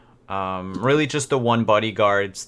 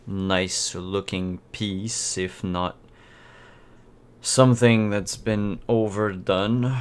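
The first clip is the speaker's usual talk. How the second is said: lightly voiced, slow art appraisal; measured buyer; slower than usual. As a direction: weigh it up slowly, faintly condescending. Plays buyer appraising the painting.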